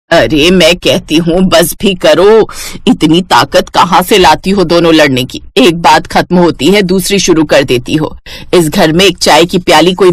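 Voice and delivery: a lightly voiced old mother-in-law telling them to stop; weary mother-in-law. Mother-in-law scolds quarrelling daughters-in-law.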